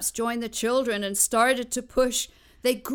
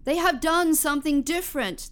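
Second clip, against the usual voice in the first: excited call; 6 semitones higher, faster than usual. Acted. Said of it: "called to the wind".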